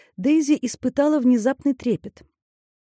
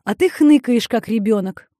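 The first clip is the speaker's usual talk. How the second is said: snorting retort; 5 dB louder than usual. Acted. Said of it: "фыркнула Поппи".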